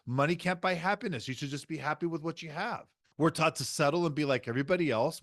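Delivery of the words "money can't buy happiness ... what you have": mock preachy advice. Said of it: "part of the middle class or mediocre".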